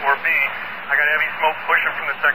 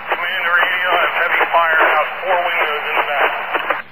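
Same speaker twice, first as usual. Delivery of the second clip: radio cutting out. Real, not acted. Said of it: "Command, you're cutting out".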